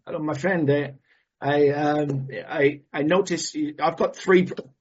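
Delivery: halting, badly faked Italian accent; half-hearted Italian accent; attempted Italian accent. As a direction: fumble through an Italian accent. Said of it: "I can't do the accent".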